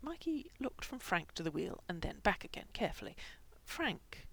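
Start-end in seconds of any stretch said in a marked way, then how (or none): 3.6-4.3 high, soft, careful address; gentle. A narrator's reading. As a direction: say the name gently, easing into bad news. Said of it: "he said gently".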